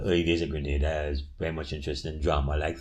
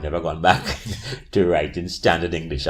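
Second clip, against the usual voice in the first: amused, louder, laugh breaking into the words; 6 dB louder than usual. Real, not acted. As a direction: say it through a chuckle. Speaker laughs while recounting her switch.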